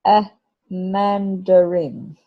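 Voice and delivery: A mandarin said slowly, syllables drawn out; slow phonics demo of mandarin; stretched for listening. Shown as a demonstration. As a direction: draw out A mandarin for little listeners. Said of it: "Listen to that one".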